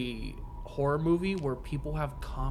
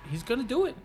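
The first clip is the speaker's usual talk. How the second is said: tense whisper to cheer; 7 semitones higher, faster than usual. Retold or imitated. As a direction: build from hushed suspense to a yelp. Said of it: "okay, so he's gonna kill".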